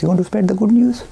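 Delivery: conspiratorial whisper; whispered question. Retold or imitated. Jay baiting the minister, in a conspiratorial whisper. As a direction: lean in and whisper it. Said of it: "I said".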